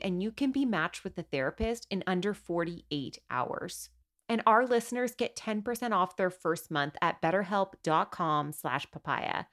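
soft, measured sponsor read. Acted. Host pausing for a word from our sponsor, soft ad read. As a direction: read the sponsor message quietly and clearly.

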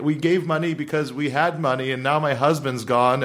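mock a woman on the verge of tears; retold plea with a touch of distress; imitated tearful plea. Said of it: "a lady started to cry".

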